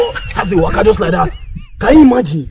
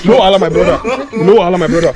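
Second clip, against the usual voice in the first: laughing; 4 semitones lower, faster than usual. Acted. Laughing reassurance.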